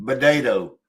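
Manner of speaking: Potato mimicked as "buh-DAY-toe"; mimicked Canadian potato. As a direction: tease by echoing Potato with a B for the P. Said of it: "Did you just hear him?".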